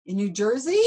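incredulous giggle at the absurdity; retold question said with a real laugh; laughing disbelief. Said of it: "I'm like".

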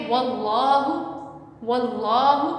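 "वल्लाहु" with a thick, dark l, said twice; heavy lam. Shown as a demonstration. Teacher showing students the thick reading, heavy l in "वल्लाहु". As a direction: recite "वल्लाहु" with the l full and heavy. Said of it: "मोटा पढ़ा जाएगा".

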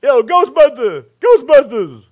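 high, drawn-out shout at a passing driver; mock yell from a car. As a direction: call out to a stranger across the road. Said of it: "They just".

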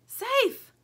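high, loud squeaky mouse; tiny mouse voice. A narrator's reading. Mouse answering Lumpy from the room, high squeak.

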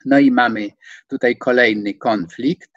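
normal talking voice

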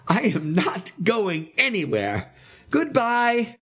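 high, emphatic farewell announcement; excited high proclamation; crying out. A narrator's reading. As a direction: declare it high and deliberately, word by word. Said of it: "he cried".

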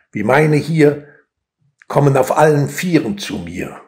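measured poem reading with weighty pauses; solemnly paced verse reading; poetry recitation. Acted. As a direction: recite line by line, letting each land.

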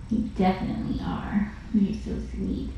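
soft whisper to the cat; whispered praise. Real, not acted. Foster carer whispering to the cat, hushed. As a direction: whisper it close to the cat's ear.

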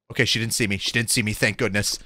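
relieved hush. Real, not acted. Relief after hiding.

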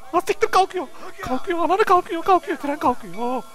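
high, urgent cries as it pulls away; panicked shout. Real, not acted. Gamer watching the train depart, high panicked cries. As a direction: yelp it like you're about to miss it. Train leaving without him.

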